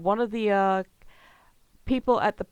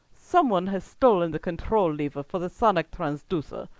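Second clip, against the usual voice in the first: menacing villain; 3 dB louder than usual. Acted. Villain voiced by DM.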